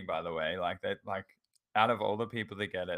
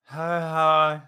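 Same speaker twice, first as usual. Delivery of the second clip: louder, higher laughing hi; flustered laughing hi; 8 semitones higher, 11 dB louder than usual. Retold or imitated. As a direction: stammer it out through a laugh. Flustered reply to barista.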